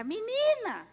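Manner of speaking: imitating boss yell. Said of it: "ela gritava".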